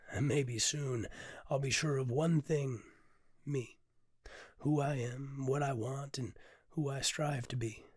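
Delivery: measured, reflective spoken-word reading; poetry reading. Acted. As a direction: read it like a confession you've finally written down. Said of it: "And I'll perform it here for you".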